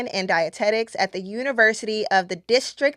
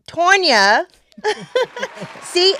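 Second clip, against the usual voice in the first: laughing at herself; 8 semitones higher, 4 dB louder, slower than usual. Real, not acted. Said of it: "I was like, "I need to get her name right".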